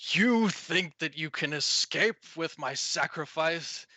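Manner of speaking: slow, drawn-out villain's boom; slow booming threat from the forest. Acted. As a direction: lightly boom it out, taking your time. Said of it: "you hear a booming voice".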